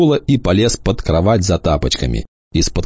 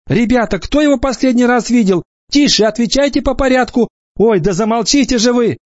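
put-on young teacher keeping order among kids. Teacher again. (высокий, громкий голос молодой учительницы)

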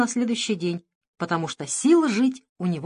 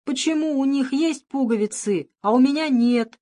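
whining; 6 semitones higher, 3 dB louder than usual. Acted. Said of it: "и хныкал".

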